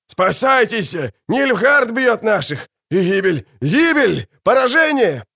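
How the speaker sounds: высоко и громко, срываясь в панику; кричи, будто смерть за спиной; паническим криком. Acted. (солдат в ужасе кричит лекарям бежать)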